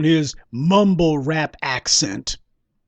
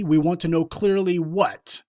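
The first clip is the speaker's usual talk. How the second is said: asks "clearly what?" with a sharp push on "what"; pointed question; 2 semitones higher than usual. Real, not acted. Commentator challenging a rapper's vague words, pointed. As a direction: demand the missing answer. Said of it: "And, okay".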